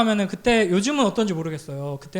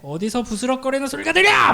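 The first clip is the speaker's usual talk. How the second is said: sergeant shout; 3 semitones higher than usual. Retold or imitated. Sergeant shouting into the silent barracks, sudden harsh shout. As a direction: snap the question out like a drill sergeant.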